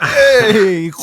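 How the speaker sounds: a big, high, loud hey; Viking greets someone he knows, loudly. Acted. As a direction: bellow a greeting.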